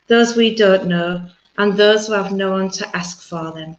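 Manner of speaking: slow, solemn healing prayer. Acted. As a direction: pray it gently and solemnly.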